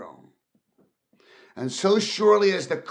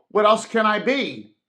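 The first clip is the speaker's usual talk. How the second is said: higher, louder, fed-up retort; exasperated outburst; 7 semitones higher, 8 dB louder than usual. Acted. Scrooge snapping back at his nephew, exasperated. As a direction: throw the question back at him. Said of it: "returned the uncle".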